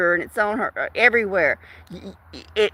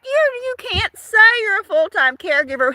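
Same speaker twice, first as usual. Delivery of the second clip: mock crying; 8 semitones higher than usual. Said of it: "but I'm like".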